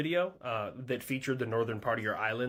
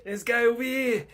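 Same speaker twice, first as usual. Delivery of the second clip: high, mocking voice with a laugh, louder; mocking military threat; 9 semitones higher, 3 dB louder than usual. A navy mocks the Russian fleet in a high, laughing voice. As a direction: sneer the threat and laugh at them.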